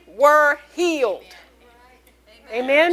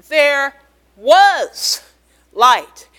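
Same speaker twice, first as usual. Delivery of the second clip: booming climax; 8 dB louder, much slower than usual. Acted. Preacher's climax on creation.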